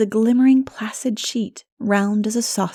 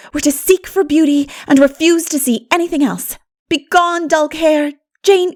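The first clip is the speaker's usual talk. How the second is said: put-on high, bubbling girl's voice; rally the girls with delight; eager Anne; 6 semitones higher than usual. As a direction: enthusiastic young dreamer. Anne leading friends happily.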